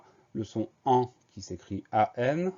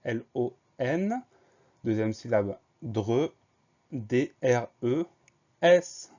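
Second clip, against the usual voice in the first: slow spelling dictation; 3 semitones higher, 3 dB louder, slower than usual. Shown as a demonstration. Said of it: "première syllabe long".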